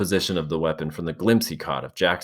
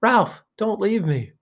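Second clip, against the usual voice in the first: much higher, slow, pleading wail; frightened wail; 3 dB louder, slower than usual. A narrator's reading. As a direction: wail it out in terror, drawn out. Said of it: "Piggy wailed".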